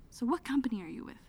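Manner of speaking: hushed, timid whispered question; quick breathy whisper to a stranger; nervous whisper. Retold or imitated. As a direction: whisper it shyly, working up the nerve.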